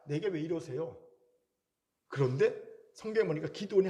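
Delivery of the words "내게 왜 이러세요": mock complaint. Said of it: "불평할 수 있습니다".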